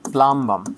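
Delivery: P=A; full L pronunciation. Shown as a demonstration. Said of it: "pronunciation হলো প্লাম্বাম".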